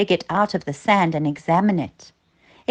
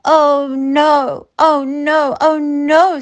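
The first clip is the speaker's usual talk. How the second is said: higher, louder worried cries; a frightened boy panicking; panicked oh no; 7 semitones higher, 4 dB louder, slower than usual. Acted. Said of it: "said Trascott".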